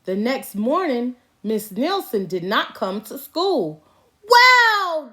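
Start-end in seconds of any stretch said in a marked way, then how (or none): 4.2-5.1 put-on loud, high cheer of kids; kids' yell. A narrator's reading. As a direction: shout it out with joy. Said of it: "yelled the kids".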